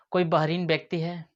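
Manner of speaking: hushed unvoiced question; whisper. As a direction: whisper it like a secret. Asks whether anyone is deaf.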